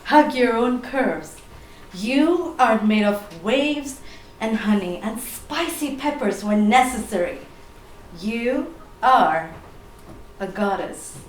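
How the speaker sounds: slow, measured poetry recital; spoken word poem. Acted. Poet addressing a woman as a goddess, tender spoken word. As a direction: recite it with spaces between phrases, softening at the end.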